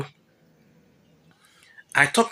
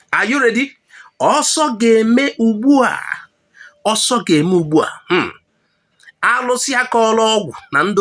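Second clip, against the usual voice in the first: clickbait video narrator; 6 semitones higher than usual. Acted. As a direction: build suspense like a clickbait intro. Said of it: "clickbait video narrator hype".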